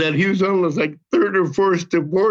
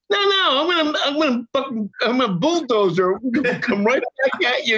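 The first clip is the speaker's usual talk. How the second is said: high-pitched, hurried retold protest; indignant rush of refusal; combative refusal; 6 semitones higher than usual. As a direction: cut off the nonsense, fast and high. Acting out his combative refusal.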